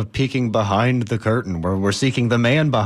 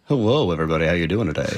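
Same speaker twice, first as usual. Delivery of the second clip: a lightly lowered sultry voice; deep sexy voice; 2 semitones lower, faster than usual. Pretend. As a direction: play it smooth and seductive, low. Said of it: "that was your deep and sexy voice".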